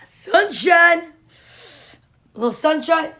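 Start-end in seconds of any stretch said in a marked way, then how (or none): 0.0-1.1 joyful call. Real, not acted. Greeting the sunshine.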